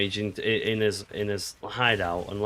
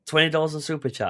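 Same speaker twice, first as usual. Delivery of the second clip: high, lost-voice wheeze; Wheezy voice; 6 semitones higher than usual. Retold or imitated. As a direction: imitate a hoarse, wheezy squeak. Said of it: "I sound like Wheezy from Toy Story".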